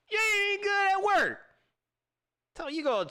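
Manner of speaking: high, laughing put-down; laughing jab. Real, not acted. Teasing a fan through laughter. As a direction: laugh it out at him.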